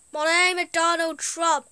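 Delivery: failed attempt at a Trump voice; half-hearted Trump impersonation; Donald Trump impression. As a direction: try a Trump voice, barely changed. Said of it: "I can't even do, like, the voice of Donald Trump".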